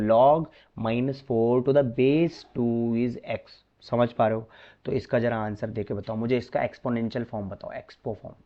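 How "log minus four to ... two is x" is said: slow, careful reading of "log minus four to the base two is x"; correct reading. Shown as a demonstration. Teacher giving students the correct reading, slow and careful. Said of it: "इसको ऐसे नहीं पढ़ा जाता, इसको पढ़ा जाएगा".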